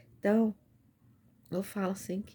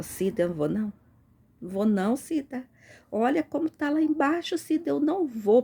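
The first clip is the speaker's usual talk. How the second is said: loud, higher frightened refusal; scared refusal; 5 semitones higher, 5 dB louder than usual. Retold or imitated. Speaker refusing her sister Cida in the dream, scared. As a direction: refuse in fear, pleading. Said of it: "Aí eu falava".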